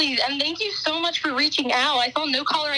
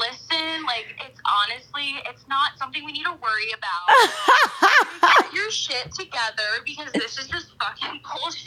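impression of the host. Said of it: "That was insane. You, like, you literally sound exactly like me".

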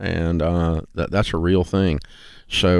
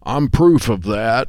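slow, sour punchline; gloomy complainer; 3 semitones higher, slower than usual. Pretend. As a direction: drag it out like a defeated pessimist. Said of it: "intonation slows down".

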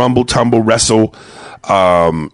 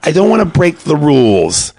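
prim son; 6 semitones higher, slower than usual. Retold or imitated. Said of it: "He goes".

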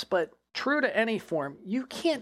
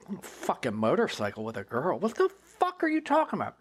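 incredulous retort. Retold or imitated. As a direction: throw the question back in disbelief. Incredulous reply to LaRue's claim.

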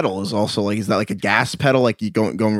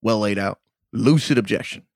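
lightly acted courtroom judge, measured, slowing on the verdict; film judge's ruling; 3 semitones lower, 4 dB quieter than usual. Judge answering Mister Gambini's objection, lightly acted ruling. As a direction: deliver a mild mock ruling, drawing out the last word. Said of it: "scene of my cousin Vinny".

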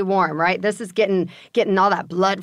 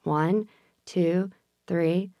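slow breathing count, fading softer; counting slowly; 5 dB quieter, much slower than usual. Shown as a demonstration.

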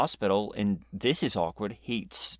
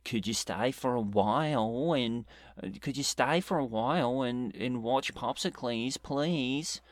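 bad French accent; 3 semitones higher than usual. Imitating a brain-injured friend, poor French accent. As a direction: attempt at a French accent, badly done. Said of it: "I can't do a French accent".

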